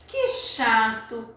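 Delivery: "que chato" drawn out slowly, like a sigh in verse; slow poem reading. Shown as a demonstration. Teacher slowly reads the poem's regret to the class. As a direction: let "que chato" linger. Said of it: "a explicação do José Paulo Paes".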